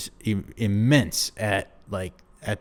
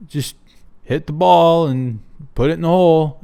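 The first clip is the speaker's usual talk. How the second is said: higher, louder, breezy no-big-deal imitation; hammed-up carefree golfer voice; mock Scottie Scheffler; 6 semitones higher, 6 dB louder than usual. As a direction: toss it off like nothing matters, voice up high. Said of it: "a guy like Scottie Scheffler who's just like".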